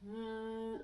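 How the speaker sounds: buzzing hum like a bee. Shown as a demonstration. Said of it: "a buzzing sound like a bee".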